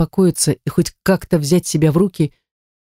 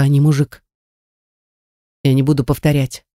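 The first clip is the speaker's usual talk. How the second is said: ordinary delivery, nothing marked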